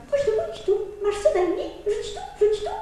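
quail calling. Acted.

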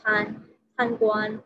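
"can" begun with a CH sound, slowly. Shown as a demonstration. Teacher shows learners that "can" starts with CH, said slowly. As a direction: say "can guan" slowly as "chan guan". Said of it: "can bacanya C H".

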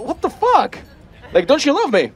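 high-pitched, wounded indignation; hurt disbelief. Acted. Costume maker criticised instead of praised, mock-hurt outburst. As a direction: protest as if love was denied.

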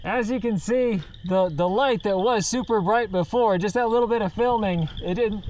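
muffled behind mask filter; speaking inside respirator; through a gas mask. Real, not acted. Seen 0: Speaker wears full gas mask covering mouth throughout labelled words.

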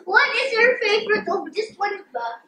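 talking around fork; fork in mouth. Real, not acted. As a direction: lips on utensil. Seen 3: Boy holds fork tip at his lips throughout the labelled words.

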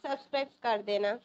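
lightly put-on girl's voice, a bit fast; a hint of a girl's voice asking to subscribe; man doing a woman's voice. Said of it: "ये सुनो लड़की की आवाज़ में".

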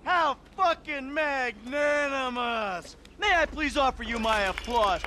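sarcastic. Acted. Sarcastic mockery of apology.

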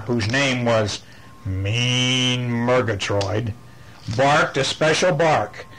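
slow, dramatic storybook narration; animated bedtime-story reading; reading to children. A narrator's reading. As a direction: stretch the key words for little listeners. Reads the picture book aloud.

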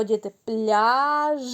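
пляж said slowly with the final Ж held; emphasised word. Shown as a demonstration. Teacher names a word for the sound game. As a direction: lean on the end of пляж. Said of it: "Де ми чуємо звук Ж?".

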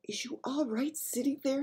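high breathy giant whisper. A narrator's reading. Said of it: "he whispered".

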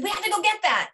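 mock-yell like dad in the hallway; retold yell.

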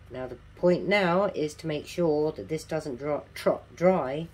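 speaking without dentures in; talking with no teeth in; toothless. Real, not acted. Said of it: "I haven't got my teeth in today".

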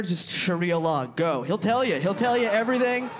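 normal talking voice

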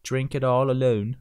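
a mild mock cockney, casual and jokey; exaggerated British accent. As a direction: play a cheeky Londoner, mock British accent. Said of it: "This is me exaggerating the accent".

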